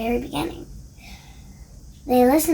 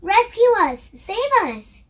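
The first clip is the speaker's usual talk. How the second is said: high panicked shriek; 8 semitones higher, 5 dB louder than usual. A narrator's reading. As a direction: beg for rescue in terror. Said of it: "they shrieked".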